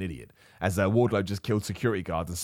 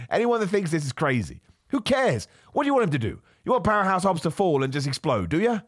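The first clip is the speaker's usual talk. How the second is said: yelling rant; 7 semitones higher than usual. Real, not acted. At fans upset about the referees, high incredulous yelling. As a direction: shout down the complainers. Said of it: "I'm yelling with you".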